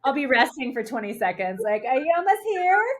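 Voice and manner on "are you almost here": higher, sing-song mock impatience; teasing impatience. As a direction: needle her like she's lagging way behind. Mocking slow swimmer friend.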